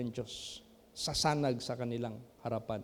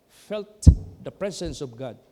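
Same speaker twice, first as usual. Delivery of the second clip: emphatic preaching; 9 dB louder than usual. Real, not acted. Preacher builds to climax.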